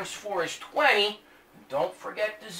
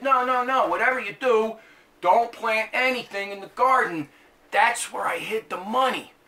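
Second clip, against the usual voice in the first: alarmed husband; 4 semitones higher, 4 dB louder than usual. Acted. Joke husband warning wife.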